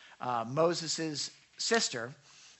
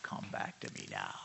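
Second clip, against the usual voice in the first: soft calling back; 15 dB quieter than usual. Acted. Drifting listeners called back.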